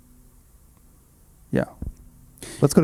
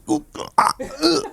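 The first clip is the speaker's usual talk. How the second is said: mock baffled grunts, oohs and ughs; half-voiced noises of someone stumped; clueless groaning; slower than usual. Host mocking listeners who cannot follow, clueless groaning. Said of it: "are just like".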